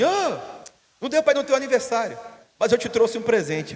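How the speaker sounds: high, quick, cheerful greeting of a friend; friendly visitor. Retold or imitated. Friend Marcão at the door with a belated birthday gift, high and cheerful. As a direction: breeze in like a buddy bringing a gift.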